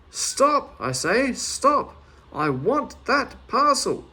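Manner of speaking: high, loud angry shouting. Acted. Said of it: "by his shouting".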